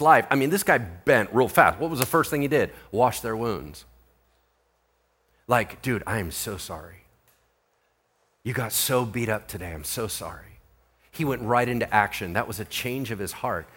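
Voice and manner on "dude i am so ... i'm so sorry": softer, lower apology; a quiet, sincere sorry; jailer apologizing. Acted. Jailer gently apologizing to the beaten prisoners, softer and lower.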